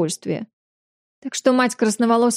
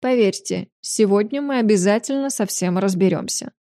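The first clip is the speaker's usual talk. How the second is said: calm reassurance. Acted. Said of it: "перебил её монарх".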